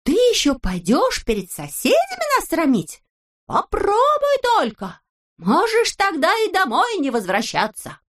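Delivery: very high, stern warning; angry threat. A narrator's reading. The friends threaten Neznaika, high and stern. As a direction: forbid it outright.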